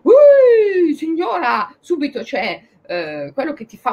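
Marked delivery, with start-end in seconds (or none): 0.0-1.7 high sharp scolding call; scolding shout. Retold or imitated. Scolding dog owner on street.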